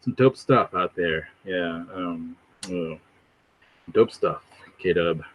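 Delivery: laid-back streamer impression, idly filling time; Vocab, flat tone. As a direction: mumble along while checking comments, mock low-key. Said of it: "like, flat tone. He's just, like".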